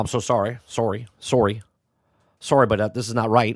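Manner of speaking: mock over-apologetic, fake polite tone. Acting out a too-polite Canadian being rude: mock over-apologetic complaint. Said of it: "I'm gonna be rude now".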